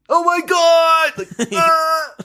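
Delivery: high, loud out-of-breath impression; hammed-up breathless cry, drawn out and high; mock a friend who's constantly out of breath. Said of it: "someone who's constantly out of breath".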